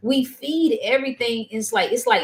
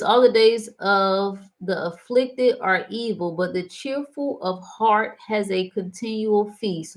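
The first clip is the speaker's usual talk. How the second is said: scripture reading; slower than usual. Shown as a demonstration. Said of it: "Proverbs fifteen and fifteen says".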